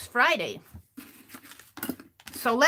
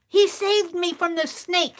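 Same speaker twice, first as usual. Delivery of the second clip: put-on higher small voice of a gnome child; the tiny gnome praising the cat that saved her; lightly voiced gnome child; little gnome girl voice; 7 semitones higher than usual. Gnome girl quoted in story.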